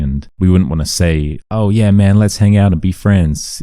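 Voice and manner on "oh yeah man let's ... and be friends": louder, higher mock-eager invitation; outgoing. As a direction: imitate an over-friendly guy making friends. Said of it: "being too outgoing".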